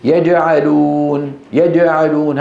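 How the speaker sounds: يجعلون with j leaning toward d; tongue-tip j in يجعلون, drawn out at first; jim like dal. Retold or imitated. Teacher demonstrates the first mistake, jim like dal. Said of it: "شبيهة بالدال".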